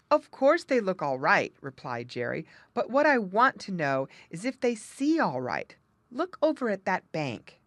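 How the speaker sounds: lightly voiced muskrat.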